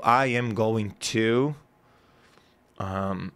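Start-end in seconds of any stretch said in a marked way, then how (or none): 0.0-1.5 slow, careful "I am going to", each word said full; slow English demo. Shown as a demonstration. Teacher spelling out "I am going to" slowly for the host. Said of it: "por exemplo".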